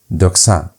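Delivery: Doxa repeated carefully on its own; model reading. Shown as a demonstration. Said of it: "Pay attention to how I'm reading".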